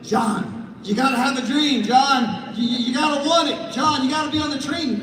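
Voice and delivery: half-mocking coach pushing a reluctant John; pushy pep talk. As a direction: pump him up, repeating his name. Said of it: "you're like".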